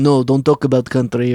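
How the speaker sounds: put-on second try at a Russian accent; lightly put-on Russian accent, words left out. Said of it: "that's not a Russian accent".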